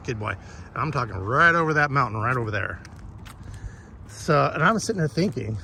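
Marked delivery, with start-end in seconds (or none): 0.1-0.4 soft quiet praise for the dog; praising dog. Real, not acted. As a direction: drop down gently, reward him. Praising dog after commands.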